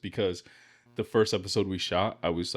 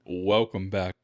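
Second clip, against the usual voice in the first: seductive intro. Acted. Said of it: "like you're trying to seduce them".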